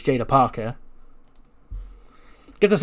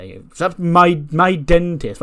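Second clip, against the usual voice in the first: higher, louder, drawn-out bewildered question; incredulous; 6 semitones higher, 5 dB louder, much slower than usual. Retold or imitated. Lyra seeing her dentist on the board, incredulous. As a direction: stretch it out in baffled disbelief.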